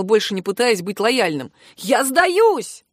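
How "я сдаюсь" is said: higher, mild cry of surrender; alarmed but contained shout; yelled surrender. A narrator's reading. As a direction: call it out in panic. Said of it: "закричал".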